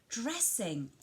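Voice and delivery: DRESSING set apart and stressed. Shown as a demonstration. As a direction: lean clearly on the word dressing. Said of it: "you would emphasise the word".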